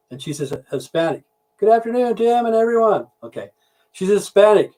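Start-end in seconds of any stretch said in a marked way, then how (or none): 1.6-3.1 high, sing-out put-on greeting; put-on high-pitched maid voice; maid's greeting. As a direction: chirp it high like a maid entering.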